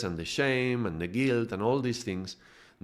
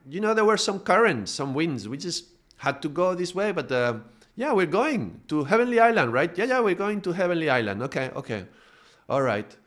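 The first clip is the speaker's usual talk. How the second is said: higher, louder string of excuses to the captain; smooth-talking ego; 7 semitones higher, 4 dB louder than usual. Retold or imitated. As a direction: talk your way out of trouble, overly reassuring. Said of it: "And the ego is like".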